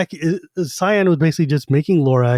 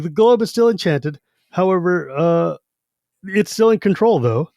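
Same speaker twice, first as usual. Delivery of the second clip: Raistlin voice; 3 semitones higher than usual. Retold or imitated. Raistlin voiced, orb explanation.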